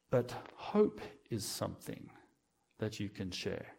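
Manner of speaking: soft, slow statement of hope; quiet refrain. Acted. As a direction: let the line sink in gently. Sermon refrain, first take.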